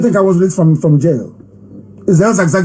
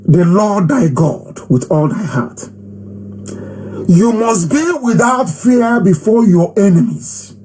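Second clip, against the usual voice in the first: measured, raised-pitch oratory; declaiming a creed; 4 semitones higher than usual. Acted. Leader recites the group's creed to followers, declaiming. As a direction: recite commandments to your followers.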